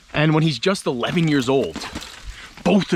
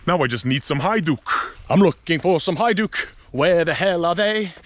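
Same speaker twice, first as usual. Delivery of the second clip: Bochkai's eager call; 6 semitones higher than usual. Retold or imitated. Bochkai searching for Hajduk.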